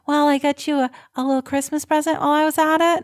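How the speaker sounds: lightly imitated Long Island niece; attempted Long Island accent. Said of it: "I can't do a Long Island accent".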